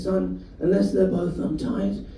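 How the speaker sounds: put-on slow, dry old dad; slow dry dad line; deadpan dad. Dad quoted in stand-up story.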